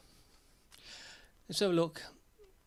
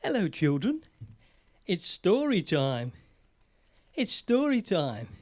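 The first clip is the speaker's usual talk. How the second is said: put-on children's presenter; slower than usual. Puppet show host addressing children.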